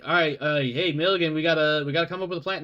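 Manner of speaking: lightly hammed Scottish Italian doctor; fast, excited Scottish Italian accent. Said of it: "He has a Scottish Italian accent".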